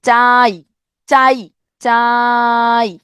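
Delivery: চাই said with the ই stopped short, not stretched; cut-off chai. Shown as a demonstration. Teacher demonstrating চাই with a clipped final ই. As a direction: say চাই and stop dead on the ই. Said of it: "ইতে এসে কিন্তু আমাকে থেমে যেতে হচ্ছে".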